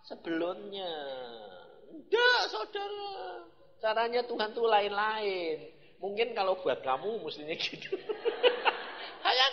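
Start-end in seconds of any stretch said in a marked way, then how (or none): 1.9-3.5 slow emphatic no. Acted. Preacher rejects doubter.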